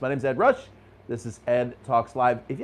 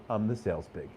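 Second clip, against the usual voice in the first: a hint of glum, much softer; mock deflated; 5 semitones lower, 8 dB quieter than usual. A dad mock-sadly tells his daughter his job, softer. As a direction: admit it with quiet mock shame. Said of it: "He's like".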